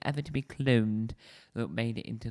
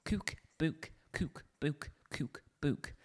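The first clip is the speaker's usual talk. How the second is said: badly faked Geordie, long "oo" vowels; amateur Geordie impression; Geordie accent; 4 semitones higher, 6 dB quieter, much slower than usual. Shown as a demonstration. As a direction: repeat it in a rough Geordie accent. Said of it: "Probably not done the Geordie accent any favours".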